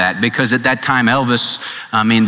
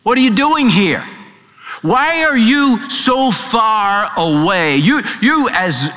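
preaching God's question; 6 semitones higher than usual. Acted. Preacher voicing God to listeners.

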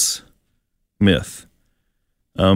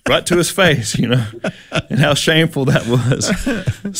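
laughing; 4 semitones higher than usual. Real, not acted. Laughing at own mistake.

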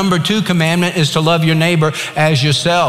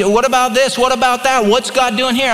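questioning people; 8 semitones higher than usual. Retold or imitated. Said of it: "People will tell me".

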